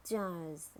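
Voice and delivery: "jars" with a British silent R; British "jars", said jahz; British accent. Shown as a demonstration. Teacher models jars for learners, British accent. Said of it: "in British English".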